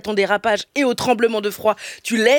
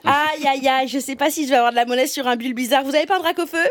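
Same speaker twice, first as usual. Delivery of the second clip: chirpy apocalypse baker; 4 semitones higher than usual. Pretend. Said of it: "personne n'a envie de prononcer la phrase".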